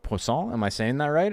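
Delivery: "Poisson" said pwah-son with a questioning rise; imitating a careful French try. Friend checking his French "Poisson" in a game stream. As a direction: ask if "Poisson" is right, rising. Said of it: "he would be like".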